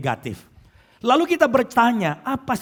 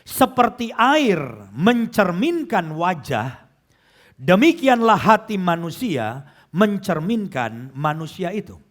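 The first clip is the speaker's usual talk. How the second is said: slow, measured Bible recitation; scripture reading; slower than usual. Real, not acted. Preacher reading Proverbs to the congregation, slow scripture reading. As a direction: read the verse out deliberately, stretching key words. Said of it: "saya akan bacakan".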